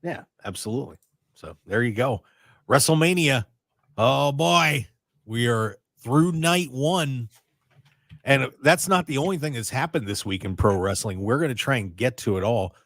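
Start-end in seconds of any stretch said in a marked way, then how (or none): none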